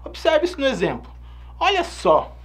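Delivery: ordinary delivery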